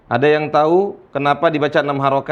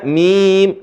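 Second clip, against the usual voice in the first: MIM with a drawn-out "ii"; elongated mim; 2 semitones higher, 3 dB louder than usual. Shown as a demonstration. Teacher pointing out the ya inside mim, stretched "mim". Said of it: "dibaca enam harokat".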